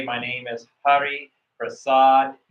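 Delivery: slow, loud, clear self-introduction. Shown as a demonstration. Coach modelling a slow, clear introduction for the visa interview. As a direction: say each word slowly and clearly. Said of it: "then you need to say it slowly".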